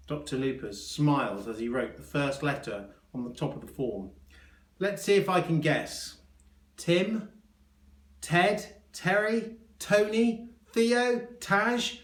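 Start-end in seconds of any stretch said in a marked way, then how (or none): 4.8-12.0 high, rapid-fire eager guesses; eager guessing. A narrator's reading. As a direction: fire off each name high and keen. Doctor rattling off guesses.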